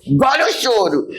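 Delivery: put-on a parent telling a child to stop crying; imitating scolding mother. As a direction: snap it like a mother. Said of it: "Minha mãe falava pra mim".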